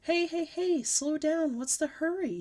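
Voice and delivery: lightly voiced dad; dad slowing her. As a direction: rein her in. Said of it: "he said".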